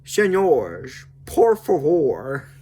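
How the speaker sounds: drawn-out plea in put-on Spanish; imitated smooth-talking appeal in Spanish; Dutch. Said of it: "Dutch is like".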